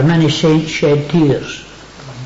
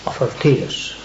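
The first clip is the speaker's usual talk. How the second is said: whispered; 4 semitones lower, 7 dB quieter than usual. Acted. Preacher whispering to the congregation. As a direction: whisper it, voice dropped right down.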